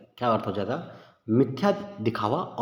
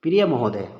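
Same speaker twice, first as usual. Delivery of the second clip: louder प्रिय महोदय, falling into a stop; pause after महोदय; 5 dB louder than usual. Shown as a demonstration. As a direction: land on महोदय and halt for the comma. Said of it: "रुको भाई थोड़ा". (महोदय पर अल्पविराम का ठहराव)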